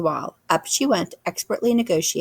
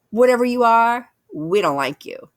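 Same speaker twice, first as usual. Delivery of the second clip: gruff bear; 6 semitones higher, 5 dB louder than usual. A narrator's reading. Brother bear threatens.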